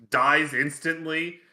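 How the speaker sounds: loud, drawn-out words with an echo; echo effect. Real, not acted. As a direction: stretch it out loudly as if echoing in a hall. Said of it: "you had echo on "dies instantly".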